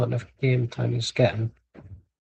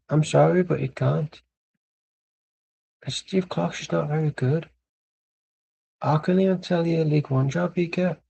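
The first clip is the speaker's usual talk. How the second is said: attempted Scottish accent with American colouring; American-Scottish woman. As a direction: imitate a Scottish woman who sounds half American. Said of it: "That's like an American Scottish woman".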